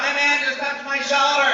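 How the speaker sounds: high, loud slow wail; child screaming on. Retold or imitated. Kid who will not shut up, loud high wail. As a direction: keep shrieking the same accusation. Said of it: "the kid will not shut up".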